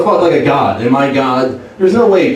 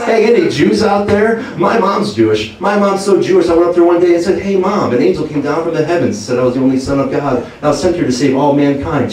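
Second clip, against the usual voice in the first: higher, upbeat club-comic patter; stand-up comic Jesus; 3 semitones higher than usual. Retold or imitated. Jesus on the cross opening his comedy set. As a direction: work the room like a cheesy headliner. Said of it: "ultimate stand-up comedian".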